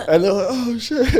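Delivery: high laughing retold cry; laughter bubbling through the quote. Real, not acted. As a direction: giggle out the crowd's reaction. Laughing at the party bursting in.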